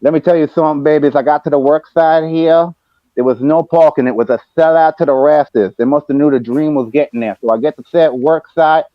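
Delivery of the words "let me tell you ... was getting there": Dusty voice. Retold or imitated. Updating the company president in a light Dusty voice. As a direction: report the job site like a promo. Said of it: "in that voice".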